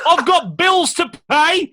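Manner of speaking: high, loud, slow wail through laughter; outraged laughing protest. Retold or imitated. Quoting herself to the manager, high laughing outrage. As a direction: wail it in mock despair.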